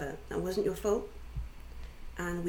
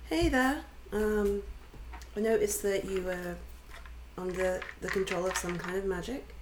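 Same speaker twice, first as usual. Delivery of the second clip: soothing voice. Acted. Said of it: "a really soothing voice".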